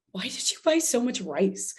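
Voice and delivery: puzzled, innocent question about the rice; a light imitation of her own curious question; genuinely curious. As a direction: ask it like you honestly don't get it. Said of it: "literally in that exact voice".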